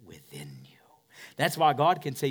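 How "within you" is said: barely breathed; soft whisper on the key words. Acted. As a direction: let it fall to a whisper. Tender core point of sermon.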